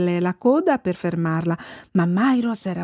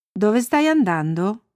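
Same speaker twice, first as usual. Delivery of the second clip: slower question in the teller's own pitch; a lightly voiced boy asking, unhurried; Olle. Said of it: "Poco dopo incontrò Olle". (domanda lenta, a voce naturale)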